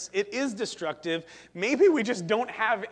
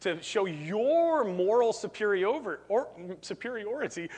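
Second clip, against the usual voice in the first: lightly voiced skeptical philosopher; Nietzsche. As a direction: question their motives suspiciously, with doubtful little hums. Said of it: "that's my Nietzsche impression".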